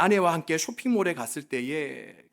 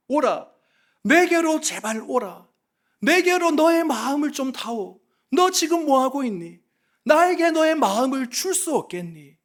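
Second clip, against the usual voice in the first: higher-pitched, urgent appeal as God; pleading; 5 semitones higher, 4 dB louder than usual. Acted. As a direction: plead earnestly, calling someone back. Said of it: "호소하고 계시는 것입니다". (간절하게 호소하듯)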